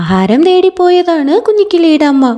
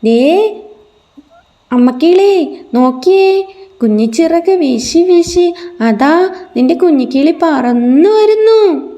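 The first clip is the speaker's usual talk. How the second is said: higher, lively call to the mother; excited calling out; 3 semitones higher than usual. Acted. Squirrel calls to the mother bird, higher excited call. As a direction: point and call out the good news. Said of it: "വിളിച്ചു പറയുവാണ്".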